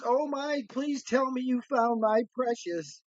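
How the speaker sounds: high-pitched, gushing plea; imitated ecstatic lady. Dog owner begs the finder for good news, imitated ecstatic. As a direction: mimic an overjoyed owner, voice lifted high. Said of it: "the lady's ecstatic".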